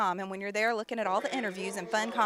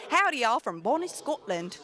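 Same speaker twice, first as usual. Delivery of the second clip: badly faked Scottish accent; terrible Scottish accent. Host imitating a viewer's greeting from Scotland, terrible Scottish accent. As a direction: have a clumsy go at a Scottish accent. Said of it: "That's a terrible Scottish accent".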